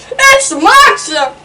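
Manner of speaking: high, loud, slow cry of fear; panicked cry. Acted. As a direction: shout it wide-eyed with fright. Dragon panics in the forest.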